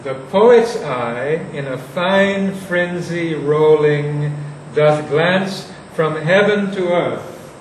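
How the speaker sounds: slow, weighted verse reading; slow recitation. Shown as a demonstration. Teacher re-reading the poet's eye lines to the class, slowly. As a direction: savour each word of the line.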